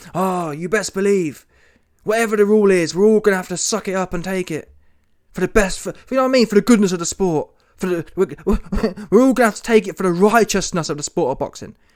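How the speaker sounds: sanctimonious, preachy, righteous sermon-like tone. Imitating how Eddie was talking: mocking Eddie as a preachy leader. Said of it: "he sounded like some, some social justice, um, leader".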